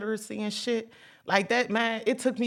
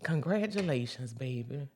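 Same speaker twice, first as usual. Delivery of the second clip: tender quote; 4 semitones lower, 6 dB quieter than usual. Retold or imitated. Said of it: "She said".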